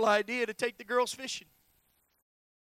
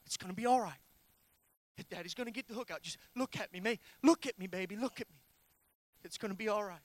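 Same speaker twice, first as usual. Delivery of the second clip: retold soothing father; faster than usual. Father to daughter with a hook in her ear, retold soothing. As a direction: gently reenact calming a hurt child. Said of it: "looking at Kenzie saying".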